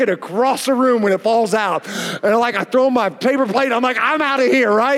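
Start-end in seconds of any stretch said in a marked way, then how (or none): 4.0-4.7 higher, hammed-up kid announcement; mock defiance. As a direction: imitate a child storming off. Child storming off in tantrum.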